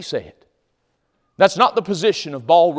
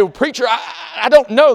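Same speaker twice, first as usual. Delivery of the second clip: mock unsure listener, higher voice with a laugh; unsure congregant; 10 semitones higher, 7 dB louder, faster than usual. Preacher imitating a hesitant listener, light and higher. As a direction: play the hesitant churchgoer, lightly. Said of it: "You say".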